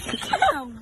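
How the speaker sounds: name called way up high; high sing-song call. Acted. Calling name again.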